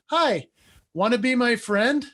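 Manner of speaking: light mock toddler asking to play. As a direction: sound like a three-year-old asking to be friends. Dad voicing his toddler son.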